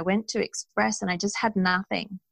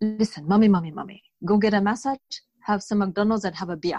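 slight put-on Indian accent, doctor-like. Retelling what the doctor told you when you were upset, doing Dr. Thondup's accent a little bit. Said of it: "I do his accent a little bit".

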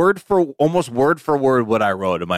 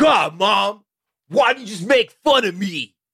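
put-on high-pitched, angry, angsty teenage outburst; 7 semitones higher than usual. Retelling what he said to his mom at the table, imitating an angsty, angry teen. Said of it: "his energy was so angsty teen, angry at his mom".

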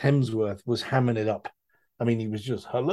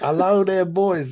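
put-on loud, high, anglicized Greek accent; 7 semitones higher, 5 dB louder than usual. Describing an actor's film role, imitating how he did it: Greek accent. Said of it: "doing it like a Greek fella who's lived in England for 10 years".

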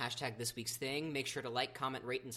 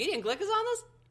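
high, loud, disbelieving squeal of surprise. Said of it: "that I'm like".

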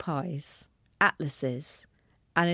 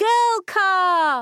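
very high, loud shout with "car" stretched long; 13 semitones higher, 8 dB louder than usual. The narrator answers Dad's question about naming the new car, shouted. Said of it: "I shouted with a small jump into the air".

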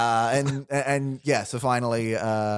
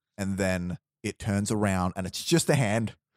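plain

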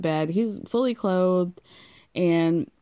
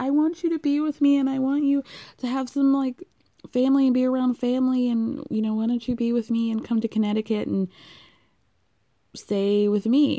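mock sobbing, pleading through tears, pitched up; 5 semitones higher than usual. Speaker retelling how she pleaded with him to come to Connecticut, imitating someone crying. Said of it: "she just full on cries because she's like".

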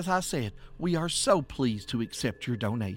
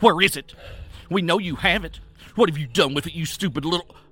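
cracking, whip-sharp voice, very loud; 2 semitones higher, 8 dB louder than usual. A lady grips another's arm after searching her jewel box, voice like a whip. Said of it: "Her voice was like a whip".

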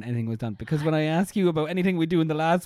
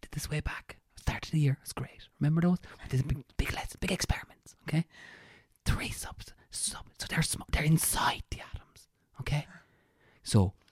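whisper, much quieter; 4 dB quieter than usual. Playing an invigilator helping a student during a test, whispering. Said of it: "I'm doing my invigilation properly".

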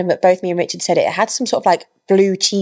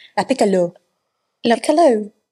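fake Italian accent with twang, pitched higher; 2 semitones higher than usual. Speaker recommending a restaurant, saying its name with an Italian twang. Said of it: "With an Italian twang".

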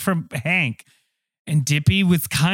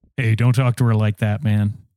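low, deep tough-guy voice; 6 semitones lower than usual. Stepping in when another man insults a woman, in a deep voice. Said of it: "He's got a deep voice".

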